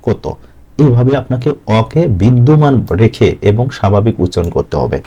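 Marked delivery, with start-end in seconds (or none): 0.1-0.3 "কত" restored to kaw-to; correct open vowel. Shown as a demonstration. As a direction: say "কত" with open "aw", not "oh". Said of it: "এখানে বলছি কত".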